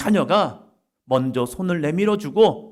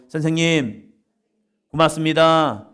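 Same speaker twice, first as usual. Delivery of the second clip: call for repetition; 5 dB louder than usual. Shown as a demonstration. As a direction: lead a congregation in saying thanks. Leads congregation to repeat after him.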